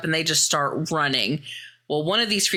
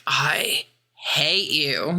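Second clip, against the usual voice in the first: a hint of a hurt friend glaring through pain; slow bitter mumble; much slower than usual. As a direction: drag out a slow, resentful I hate you. Injured Holly snaps at friends.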